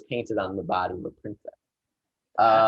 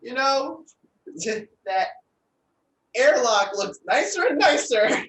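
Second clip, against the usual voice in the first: menacing; 12 semitones higher, 3 dB louder than usual. Acted. Improv threat scene.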